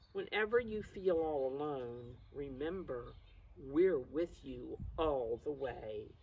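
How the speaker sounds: tender picture-book ending; reassuring storybook reading. Acted. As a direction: soothe the class as you read the last page. Reads picture book to class.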